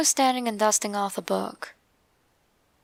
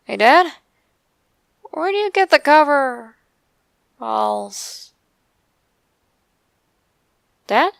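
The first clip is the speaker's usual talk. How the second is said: calling out; 5 semitones higher, 5 dB louder than usual. Retold or imitated. Calling out to father.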